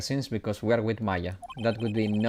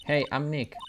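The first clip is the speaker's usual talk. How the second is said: higher-pitched hello; second, livelier attempt; 4 semitones higher than usual. Shown as a demonstration. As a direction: call it out higher, testing for a response. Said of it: "Maybe not saying it loud enough".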